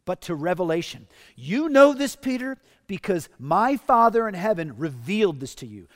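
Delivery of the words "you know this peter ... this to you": a raised, louder voice for Jesus; Jesus to Peter. Acted. Pastor voicing Jesus telling Peter he knows this, raised and louder. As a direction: speak as Jesus gently pressing the point to Peter.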